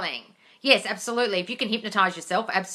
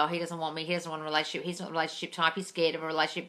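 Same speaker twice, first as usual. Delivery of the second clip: insecure inner voice; 5 dB quieter, faster than usual. Retold or imitated. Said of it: "your imagination running riot".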